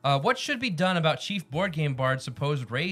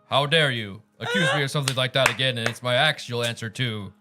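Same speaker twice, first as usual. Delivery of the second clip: booming indignant bard, louder; 6 dB louder than usual. Acted. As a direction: declaim it like a proud bard. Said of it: "you gotta do your bard voice".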